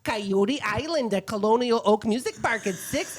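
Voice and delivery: chatty Midwestern mom reading listings; folksy Midwest accent, sing-song. Pretend. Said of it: "do it in my Midwestern mom voice".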